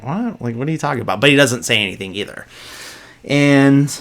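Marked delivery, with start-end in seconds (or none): 0.0-1.2 high, rising mock what, then softer; puzzled what, tossed off lightly; retold bafflement. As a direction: lightly imitate someone taken aback. Retells a baffled man's reaction.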